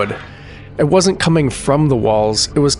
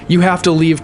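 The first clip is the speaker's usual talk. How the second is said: fearful; 5 semitones higher than usual. Acted. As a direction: urge them out in sudden fear. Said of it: "his voice suddenly fearful".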